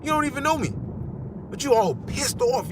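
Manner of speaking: high, mock-baffled voice; high mock disbelief, laughing it off; mock bewildered reply. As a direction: act baffled at the angry stranger. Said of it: "You're like".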